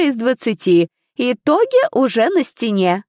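a strict examiner reprimanding the ladies; stern stewardess. A narrator's reading. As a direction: scold the failed girls from above. Examiner lectures the girls.

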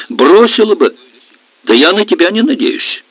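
high, loud contempt; bitter retort. Acted. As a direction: cut him down. Wife retorts in quarrel.

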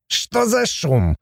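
high, drawn-out jolly dwarf; playful high-pitched greeting; cheerful Abaddon. A narrator's reading. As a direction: merrily poke your nose in, high and slow. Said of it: "услышала Сати весёлый голос Абаддона".

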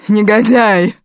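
loud venomous insult; furious cursing. A narrator's reading. Natalia curses her son, loud venom. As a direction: spit the word out.

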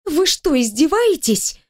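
high, strained indignant cry; would-be bark. A narrator's reading. Employee snapping at amused boss, squeaky would-be bark. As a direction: try to bark it but let it go high. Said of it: "рявкнула я".

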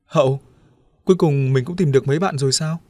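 happy shout. Acted. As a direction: greet them with delighted relief. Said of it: "mừng hét lên". (mừng rỡ reo lên)

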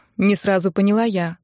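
usual speaking voice

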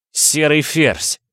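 high, slow, eager cry; excited exclamation. A narrator's reading. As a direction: call out the name in sudden hope. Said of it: "воскликнул молодой воин".

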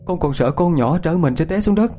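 high-pitched anxious mother; tearful. Acted. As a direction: explain through tears, voice held high. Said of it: "chị Tám nước mắt ngắn dài".

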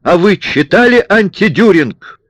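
sharp high bark; barked question. A narrator's reading. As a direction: bark it out loud. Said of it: "рявкнул".

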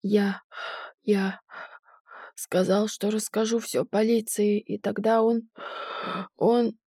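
halting, breathless words; gasping between words; shallow breathing. A narrator's reading. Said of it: "задыхаясь". (прерывистое дыхание)

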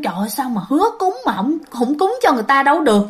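quick mock grumble at mom; fretful retold scolding, fast; retold grumbling. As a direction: lightly imitate a nagging complaint, hurried. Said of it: "bạn mới cằn nhằn".

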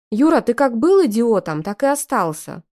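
snorting. Acted. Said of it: "фыркнула я".

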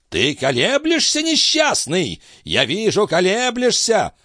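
put-on very high, strained old man's rant; old master ranting. A narrator's reading. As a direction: rail against him with contempt. Althotas accuses.

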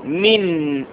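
من said as min, the n closed with no vowel; sukun on نون. Shown as a demonstration. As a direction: voice من with a silent, vowelless n. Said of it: "مضبوطة بالسكون".

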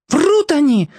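high indignant cry; indignant outburst. A narrator's reading. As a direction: flare up and protest. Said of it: "вскинулась Маша".

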